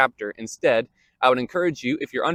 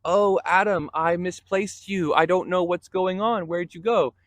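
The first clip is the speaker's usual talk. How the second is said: higher, slower, mock-baffled searching voice; confused God misplacing Adam; 6 semitones higher than usual. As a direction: play a puzzled God who lost track of Adam. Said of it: "this isn't sort of a".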